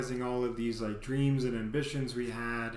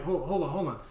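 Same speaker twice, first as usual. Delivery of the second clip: higher and louder, startled; flustered realization; 6 semitones higher, 4 dB louder than usual. Retold or imitated. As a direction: scramble as it dawns. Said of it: "And I'm like".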